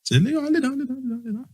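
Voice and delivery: dad ordering. Retold or imitated. Dad ordering him onto bed.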